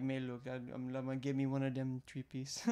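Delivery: lightly put-on Cajun accent. Ordering a three piece, mock Cajun accent. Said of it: "I love the Cajun accent".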